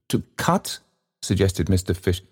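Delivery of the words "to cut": whispered prompt. Acted. Fish prompting quietly.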